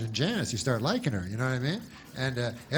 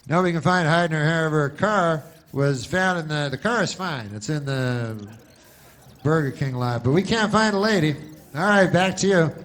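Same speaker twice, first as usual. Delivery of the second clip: field reporter; 2 semitones higher, 4 dB louder than usual. Retold or imitated. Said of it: "Bill's outside. He's like".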